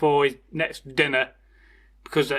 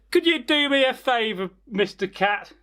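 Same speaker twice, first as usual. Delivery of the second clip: mouse voice; 5 semitones higher than usual. Acted. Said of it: "the mouse said".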